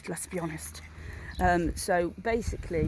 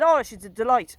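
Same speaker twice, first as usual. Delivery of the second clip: put-on Irish accent; 3 semitones higher, 6 dB louder than usual. Customer praising shop worker, slight Irish lilt. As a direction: lightly imitate a delighted Irish lady. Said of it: "She wasn't Irish".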